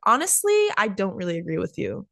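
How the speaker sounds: opening up frankly; honest opinion. Shown as a demonstration. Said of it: "you can just be like".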